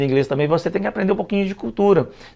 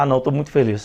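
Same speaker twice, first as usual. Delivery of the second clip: lower, acted gloom; mock sad; 4 semitones lower, faster than usual. Shown as a demonstration. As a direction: pretend to be downcast, only lightly. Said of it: "todo triste".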